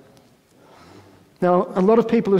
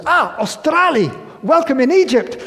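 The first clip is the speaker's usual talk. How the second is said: put-on Egyptian guard's accent; 10 semitones higher, 5 dB louder than usual. Guard greeting the Australian prisoner on the stairs, in a high Egyptian accent. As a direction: gush it like a cheery Egyptian guard, stretching Australia. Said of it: "And he goes".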